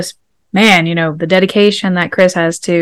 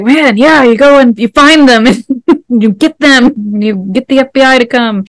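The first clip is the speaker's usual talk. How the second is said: higher-pitched, excited egging-on with a laugh; revved up; 5 semitones higher than usual. Retold or imitated. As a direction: cheer them on, all fired up. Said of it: "Everett had me revved up".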